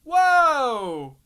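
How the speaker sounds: loud, high whoa, sliding down; amazed exclamation. Real, not acted. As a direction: burst out in real amazement. Amazed at cleaner working in game.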